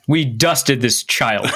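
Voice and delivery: slow, laughing confession. Real, not acted. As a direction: say it slowly, fighting back laughter. Laughing at own story.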